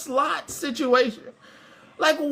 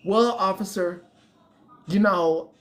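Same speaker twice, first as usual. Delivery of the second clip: suspect; 4 semitones lower, slower than usual. Retold or imitated. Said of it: "here's that person".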